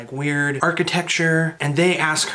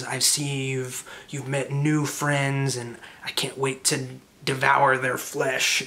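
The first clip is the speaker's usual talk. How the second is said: raspy taunting creature. Acted. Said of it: "This raspy, kind of coughing, hacking voice taunts".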